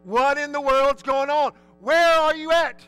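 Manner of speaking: from hushed fear to a frantic call; frightened father searching for his son; retold panic. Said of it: "so now I'm thinking".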